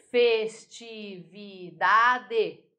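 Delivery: "Festividade" very slowly split fes-ti-vi-da-de; five separate beats in "Festividade": fes, ti, vi, da, de; slow, deliberate fes... ti... vi... da... de; syllable by syllable. Shown as a demonstration. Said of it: "Cinco sílabas".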